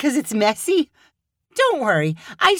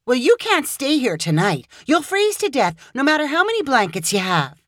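much higher, sympathetic outrage; be angry on his behalf; indignant Hannah; 7 semitones higher than usual. Acted. Hannah outraged at Caleb's landlord, indignant.

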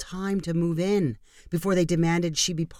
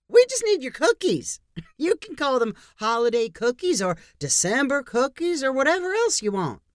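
very high, loud sugary Honey voice; condescending neighbor; 8 semitones higher, 3 dB louder than usual. Acted. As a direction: brush her off with a laugh. Diane brushing off objections.

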